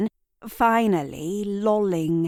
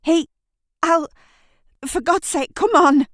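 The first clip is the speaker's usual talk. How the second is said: high and much louder on come on; desperate; 11 semitones higher, 8 dB louder than usual. Acted. Kat urging Shirley toward the house, desperate shout. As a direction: break off, then burst out. Panicked urgings at crime scene.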